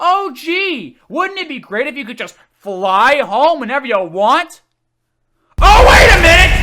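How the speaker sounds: full-throated yelling, very high, shrill and loud. Complaining about a movie's plot hole, the speaker is retelling own screaming at it. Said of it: "I'm just screaming".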